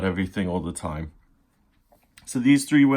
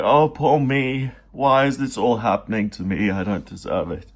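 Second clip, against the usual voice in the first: self-pitying whine. Retold or imitated. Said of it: "he's the king of self-pity, and he's like".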